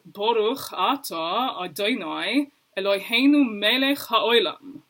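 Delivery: darker ah vowels, Ashkenazi style; Ashkenazi Hebrew imitation. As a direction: imitate a Crown Heights Chabad friend's Ashkenazi Hebrew. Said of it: "It's my best imitation".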